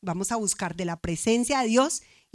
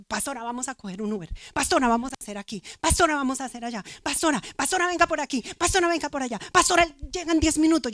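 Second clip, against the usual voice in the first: put-on eager teenage girl; 4 semitones higher, faster than usual. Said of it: "esta niña de diecisiete años".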